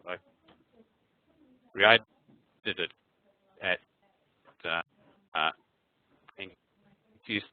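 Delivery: choppy, stretched call audio; glitchy robotic call dropout; breaking up audio. Real, not acted. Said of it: "your audio is breaking up extremely badly".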